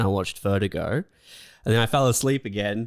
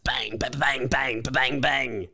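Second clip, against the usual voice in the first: hushed whispered bang bang. Acted. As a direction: whisper the thunder bangs. Imitating lightning strikes.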